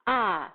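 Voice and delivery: a sounded out alone and stressed; isolated vowel sound. Shown as a demonstration. Teacher gives the vowel of rat. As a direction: hold a as a clear open vowel. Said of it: "On entend le son".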